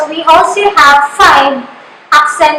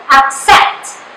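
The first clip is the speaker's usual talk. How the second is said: "accept" with "cept" pushed harder than "ac"; stress on second syllable. Shown as a demonstration. Teacher gives an example of emphasis, "accept" stressed on "cept". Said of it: "you have to pronounce it louder".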